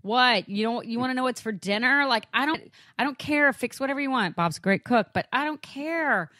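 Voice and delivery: mock exasperated brush-off on the phone, I don't care; retold frustration. Wife at work retelling brushing off her husband's call, exasperated. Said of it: "I'm getting frustrated".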